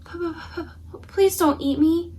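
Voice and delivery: a scared knight begging; cowardly stammer. Acted. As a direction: plead with a stammer. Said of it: "a cowardly knight".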